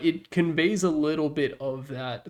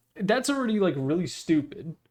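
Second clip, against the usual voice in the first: plain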